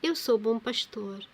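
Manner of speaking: lightly proclaimed Gospel reading; measured reading aloud with emphatic phrase openings; scripture reading. Acted. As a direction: read the parable out firmly to listeners.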